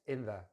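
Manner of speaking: "in the" with no gap; reduced "in the" as one word; weak "the" joined to "in"; joined together. Shown as a demonstration. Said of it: "kind of join it together".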